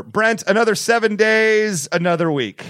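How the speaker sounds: slow, drawn-out show opener; slow dramatic intro. Shown as a demonstration. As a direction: announce it slowly and grandly. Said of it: "let's start over".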